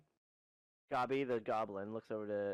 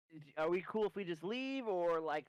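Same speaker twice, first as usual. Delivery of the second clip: nervous goblin plea; 5 semitones higher than usual. Acted. Player voicing nervous goblin plea.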